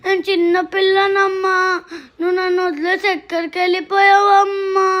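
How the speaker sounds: crying as she pleads with mom; little girl crying for her mother; tearful plea. Acted. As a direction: sob out the question. Child cries for dead mother.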